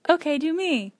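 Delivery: imitating her friend. Shown as a demonstration. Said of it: "I can do you".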